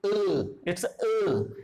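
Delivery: अ held very long and slow; the longest अ sound; long drawn vowel. Shown as a demonstration. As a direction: stretch अ out as long as you can. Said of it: "सबसे बड़ा हमारा अ होता है".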